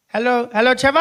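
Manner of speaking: put-on high little boy's voice on the phone; nine-year-old brother. Little brother phones his big brother, high polite child voice. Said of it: "He's nine years old".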